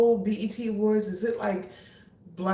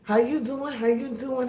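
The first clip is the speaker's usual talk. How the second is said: high, bright repeated how you doing; high greeting; 6 semitones higher than usual. Real, not acted. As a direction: keep greeting each newcomer up high. Greeting viewers joining the live.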